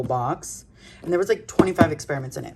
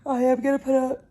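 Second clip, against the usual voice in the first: yawning; 9 semitones higher than usual. Real, not acted. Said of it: "the fifth time I have yawned".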